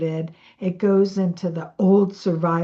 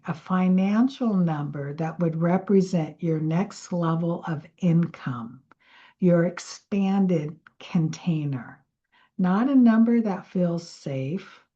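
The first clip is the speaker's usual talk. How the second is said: whispered meditation; 2 semitones lower than usual. Acted. Guiding listeners to picture an income number, whispering. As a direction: breathe the words out gently.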